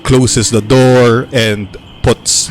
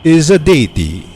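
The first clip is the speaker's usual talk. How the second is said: elder storyteller; 3 semitones higher than usual. Acted. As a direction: explain the forest's doom like a worried village elder. Elder explains Malar's history.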